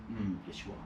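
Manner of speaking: pained teacher's haughty Mid-Atlantic verdict; Mid-Atlantic accent. Retold or imitated. Teacher judging a Long Island student, Mid-Atlantic accent. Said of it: "Mid-Atlantic accents".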